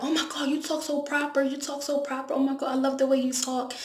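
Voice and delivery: imitating classmates. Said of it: "they'd be like".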